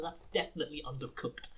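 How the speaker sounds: imitated judge leaning on "definitely"; stress on definitely. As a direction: hit "definitely" hard as a firm correction. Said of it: "the emphasis on the word".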